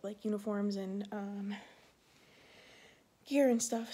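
short of breath from pregnancy. Real, not acted. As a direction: talk while winded, pausing for air. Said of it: "Sorry, I'm, like, out of breath".

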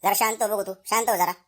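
calming. Acted. Father-in-law tells angry daughter-in-law he will handle it, calming. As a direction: settle someone down, taking charge.

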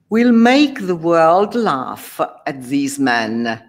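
slow, deliberate villain voice; scheming sorcerer. Acted. Faustus plotting revenge on the knights, slow and scheming. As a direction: savour the revenge.

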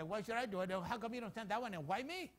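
acted-out grumble of a reluctant believer; complaining. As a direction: protest your unfair assignment, voice rising at the end. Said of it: "we have a lot of complaints".

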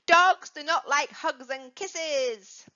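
"Dogs do not like hugs and kisses" slowly, Dogs leading; slow chant-along rule; slow model sentence. Shown as a demonstration. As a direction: say it slowly for them to copy. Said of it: "repeat after me".

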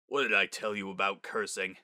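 stern father. Acted. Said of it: "said in a stern voice".

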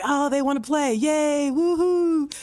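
sarcastic cheering; mock delight. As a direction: ham up a gamer thrilled to find a fight. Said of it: "the P V P player is like".

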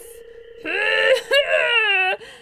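high, drawn-out bear noise; loud wordless creature noise, rising; cartoon bear sniff-howl. Bear sniffing maple syrup, high drawn-out creature noise.

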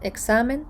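Екзамен stressed on the middle syllable; weight on the sa of Екзамен, with s not z; penultimate stress. Shown as a demonstration. Teacher giving an example of the rule, Екзамен stressed on the middle. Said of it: "наголос перестрибує на попередній склад".

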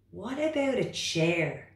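high, loud, protesting frog voice; reluctant frog. Acted. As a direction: whine back like a stubborn little frog. Frog character.

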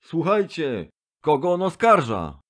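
high, agitated crowd voice. A narrator's reading. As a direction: ask it indignantly from the benches. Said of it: "wołano na sali".

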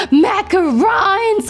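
gasp, then a slow, delighted macarons; thrilled by the sweets; excited gasp. Real, not acted.

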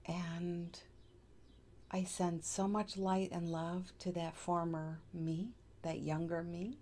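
calm meditation guide with long pauses; unhurried, even guiding voice; guided meditation. Acted. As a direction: lead them gently through breaths and affirmations, pausing between phrases.

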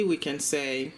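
normal talking voice

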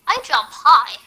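loud bouncy call; playful shout. Pretend. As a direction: call it out as you leap. Playful bunny jump call.

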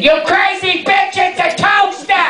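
high mock-outraged yell at the clerk; ironic "very nicely". Comic yelling at the store clerk over a toaster. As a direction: belt it out, fed up with the toaster fuss. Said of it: "I said very nicely".

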